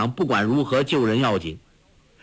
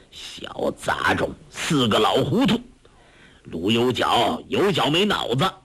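scolding. Acted. Old beggar master curses the deceived clan elders, mildly scolding. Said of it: "连骂".

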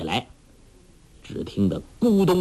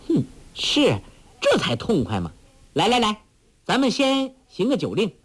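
put-on high, gleeful young heroine; cheerful girl ordering a drinking game; 9 semitones higher than usual. A narrator's reading. Huang Rong pleased with the host, high and gleeful. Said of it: "黄蓉笑道".

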